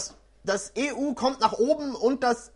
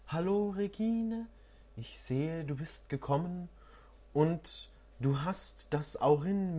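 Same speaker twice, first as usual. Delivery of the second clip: softer, calm mysterious oracle; 2 semitones lower than usual. Acted. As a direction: speak the rhyme gently as the oracle. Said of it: "hörte eine Stimme freundlich sagen".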